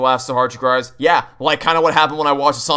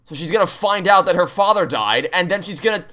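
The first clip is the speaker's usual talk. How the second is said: higher-pitched, worked-up objection; real exasperation, pitched up and emphatic; exasperated rant; 4 semitones higher than usual. Real, not acted. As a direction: argue the plot hole in rising exasperation. Worked-up rant about plot holes.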